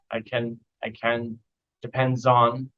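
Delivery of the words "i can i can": "can" reduced to kn; softly tossed-off "can"; "I can" with an unstressed short vowel; weak "can". Shown as a demonstration. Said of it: "can becomes can".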